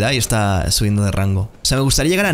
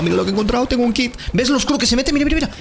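rising much higher, thrilled at the find; excited; 11 semitones higher, faster than usual. Real, not acted. Gamer shows viewers his new kit, higher and thrilled. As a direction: squeal with delight over the loot.

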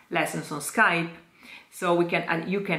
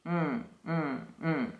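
nasal hum; 9 dB quieter than usual. Shown as a demonstration. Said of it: "It's a nasalized N".

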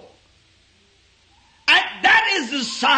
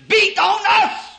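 preaching shout. Real, not acted. Preacher to his congregation, shouting with fervour. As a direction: hammer the words out to the congregation.

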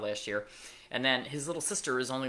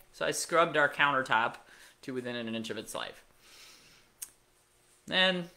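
usual speaking voice

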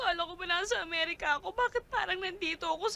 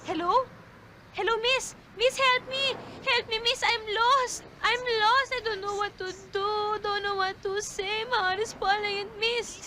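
calling for help; 2 semitones higher than usual. Acted. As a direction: call out desperately, lost and scared. Lost woman calling out for help. (sumisigaw ng tulong, nataranta)

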